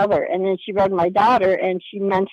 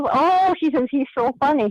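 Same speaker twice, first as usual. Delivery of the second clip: imitating a delighted, high-pitched "oh"; retold delight, pitched well up; delighted reaction; 5 semitones higher than usual. Retold psychic reacts with amusement.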